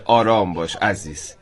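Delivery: slow, low and soft reassurance; soothing. Acted. Guest reads out an imagined sign to a groom, soothing. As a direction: ease them down gently, unhurried.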